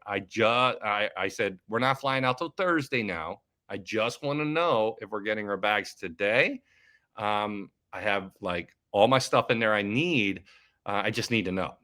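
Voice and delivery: retold calm, measured request; real calm. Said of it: "I was real calm".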